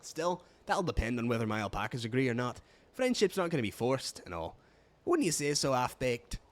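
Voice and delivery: easygoing keeper with a Scottish lilt; roughly Scottish dialect; amateur Scottish accent. Acted. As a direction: attempt a Scottish brogue. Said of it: "I am just defaulting to Scottish".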